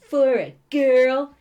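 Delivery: high, loud, drawn-out challenge; challenging. A narrator's reading. Heroine answers Nox's compliment, high slow challenge. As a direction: throw it down slowly as a challenge. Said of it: "she challenged".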